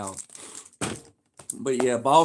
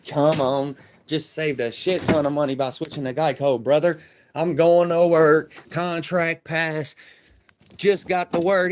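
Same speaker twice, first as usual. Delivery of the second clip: higher and louder, pumped; hyped up; 5 semitones higher, 6 dB louder than usual. Real, not acted. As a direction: celebrate the good news loudly. Hyped after boss call.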